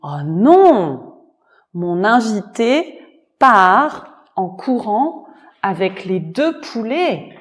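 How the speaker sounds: understated dismay; dismayed master. Acted. Master sees his guest flee with the chickens, mildly dismayed. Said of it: "a dit".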